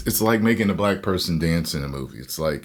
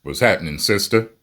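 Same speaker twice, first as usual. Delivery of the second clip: higher, louder playful "what's happening, sister"; mock sister greeting; 5 semitones higher, 5 dB louder than usual. Teasing co-host greets her playfully as a sister. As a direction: hail her like a homegirl, teasing.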